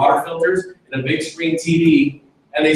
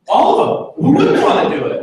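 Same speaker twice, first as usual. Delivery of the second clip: giddy excitement; 12 semitones higher than usual. Retold or imitated. Overexcited young recruit.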